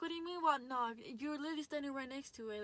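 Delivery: hammed-up outrage at the boys; indignant retort. Retold argument with the boys.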